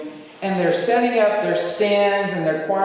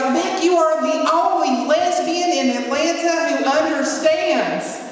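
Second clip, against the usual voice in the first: louder Jeff; 8 semitones higher than usual. Retold or imitated. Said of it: "getting louder and louder".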